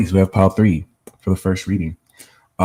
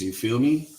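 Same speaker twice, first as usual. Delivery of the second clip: higher-pitched Brooklyn tag question; playful Brooklyn accent; 5 semitones higher than usual. Pretend. Streamer checking with chat, playful Brooklyn accent. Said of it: "I do have a B K accent".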